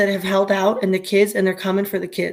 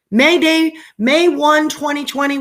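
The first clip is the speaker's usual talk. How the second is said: emphatic; 5 semitones higher, 3 dB louder than usual. Real, not acted. Emphatic date in speech.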